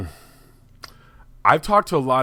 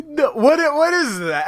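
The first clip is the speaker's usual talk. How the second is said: high, loud disbelief at a silly noise; what on earth was that; incredulous; 5 dB louder than usual. Real, not acted. Co-host reacting to an imitated grunt, high and disbelieving. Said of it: "reacting to the imitated sound".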